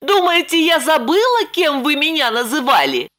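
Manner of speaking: put-on high young woman's voice, lightly eager; Lipochka reassuring. A narrator's reading. Lipochka telling Roman the bandit left, high voice. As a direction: pitch up into Lipochka.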